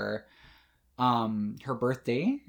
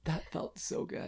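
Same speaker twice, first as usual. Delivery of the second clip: whispering; 3 semitones higher, 11 dB quieter, slower than usual. Real, not acted. Hushed aside after the catchphrase.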